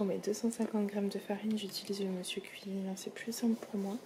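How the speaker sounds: hushed near-whisper so sleepers stay asleep. Real, not acted. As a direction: keep it barely above a whisper. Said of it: "donc je parle pas trop fort".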